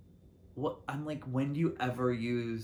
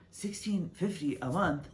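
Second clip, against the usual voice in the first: higher-pitched, disbelieving repeat of the price; incredulous echo; 6 semitones higher than usual. Retold or imitated. Reacting to the coworker's rent find, incredulous. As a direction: echo it back in mock shock.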